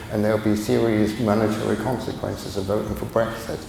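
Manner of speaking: a light half-hearted Beckham voice, mouth barely open; hint of Beckham, lips hardly moving; David Beckham impression. Beckham warning about Brexit money, lightly imitated with lips hardly opening. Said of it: "I can't quite do the David Beckham accent".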